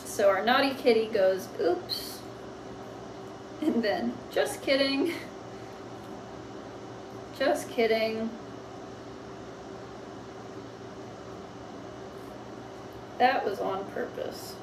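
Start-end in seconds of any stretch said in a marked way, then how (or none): 1.6-2.2 whispered high "Oops."; a sly little whisper; breathy oops. Acted. Naughty cat whispering after breaking the glass. 4.3-14.5 slow dictation. Shown as a demonstration. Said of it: "slow dictation while writing".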